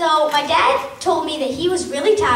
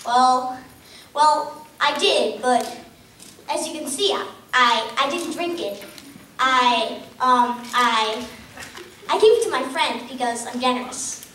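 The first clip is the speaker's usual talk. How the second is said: halting, with pauses and restarts, as if caught out; acted hesitant fibbing. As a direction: stammer and stall through a mock excuse.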